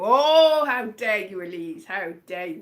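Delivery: lightly voiced offended mum, tailing off; imitated scolding mother. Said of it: "probably gonna watch this and go".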